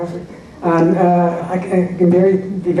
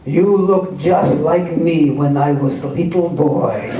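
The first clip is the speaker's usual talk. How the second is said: put-on Russian accent; slower than usual. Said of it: "He had a very thick Russian accent".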